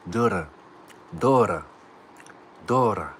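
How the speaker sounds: Duda said with a D and a short first vowel; trying out Duda. Shown as a demonstration. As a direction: test the word Duda a few times. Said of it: "Was that right?".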